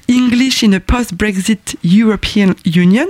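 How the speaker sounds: slow, careful English-accented reading. Shown as a demonstration. Presenter reads an English article title with English accent. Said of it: "attention à mon accent".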